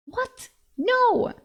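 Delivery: high startled yelp then a firm no; shocked. Acted. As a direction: blurt it out in disbelief. Shocked at eating a collar.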